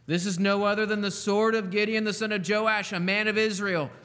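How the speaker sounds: comrade's proclamation. Acted. Comrade telling Gideon's fate, a touch proclaimed. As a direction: proclaim it like a soldier realizing victory. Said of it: "And his comrade answered".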